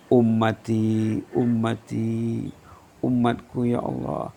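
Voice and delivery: slow, drawn-out mournful pleading; softly aching, stretched-out cry to God; tearful plea, retold. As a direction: imitate a grieving prayer without real sobbing. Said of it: "lalu Nabi Muhammad menangis".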